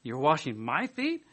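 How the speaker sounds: slow, disbelieving rise on feet; incredulous Peter. Retold or imitated. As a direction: Peter staring down at Jesus. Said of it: "was Peter's attitude".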